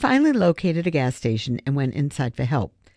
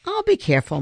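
promising; faster than usual. A narrator's reading. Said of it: "Melissa promised".

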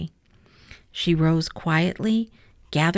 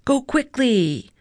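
ice spirit voice; 5 semitones higher than usual. A narrator's reading.

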